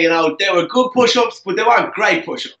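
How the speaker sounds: light impersonation of a football pundit; a hint of a pundit's voice; Eamon Dunphy impression. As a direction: lightly mimic a pundit passing judgement. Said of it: "That's not a bad impersonation".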